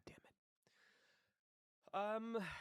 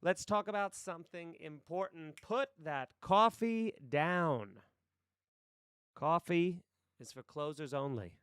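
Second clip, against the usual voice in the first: commanding sales boss, raised pitch; monologue audition voice; 4 semitones higher, 4 dB louder than usual. Acted. Boss ordering a salesman off the coffee, commanding monologue voice. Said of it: "Here's my monologue audition".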